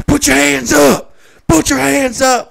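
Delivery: high, full-force shouted command; bailiff shouting. Retold or imitated. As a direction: yell slowly like an alarmed bailiff. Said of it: "the bailiff starts shouting at her".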